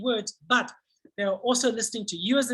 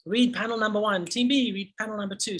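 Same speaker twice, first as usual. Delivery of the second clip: teacher voice. Shown as a demonstration. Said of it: "And then I'll ask team number one".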